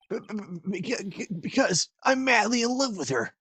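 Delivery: high, flustered stammer; stammering confession. Acted. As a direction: blurt out the confession nervously. Stammering love confession in character.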